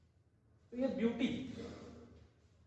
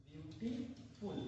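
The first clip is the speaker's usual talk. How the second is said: drawn out very slowly, low and soft; very slow dictation; 5 semitones lower, 11 dB quieter, much slower than usual. Shown as a demonstration. Teacher dictating very slowly to the students. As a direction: spell it out word by word for the class. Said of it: "she is more beautiful".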